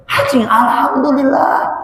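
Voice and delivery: high, slow fake sneeze into alhamdulillah; mock sneeze. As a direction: ham up the sneeze, then praise. Mimics a sneeze then praise. (bersin pura-pura, tinggi dan pelan)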